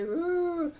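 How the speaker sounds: high, drawn-out "ooh" imitating a wail; mock crying wail. Recapper imitating the crying aldermen, mock wail. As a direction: pretend to bawl on one long ooh. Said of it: "they crying and they".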